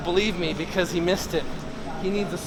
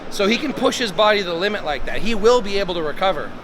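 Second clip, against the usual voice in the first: hyped up; 3 semitones higher, 4 dB louder than usual. Real, not acted. Hyped after set.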